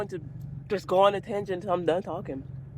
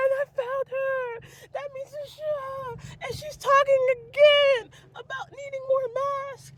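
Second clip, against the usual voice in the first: exasperated high wail; 14 semitones higher than usual. Real, not acted. Complaining about finding her online again, high exasperated wail. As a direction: voice climbing into a thin, high whine.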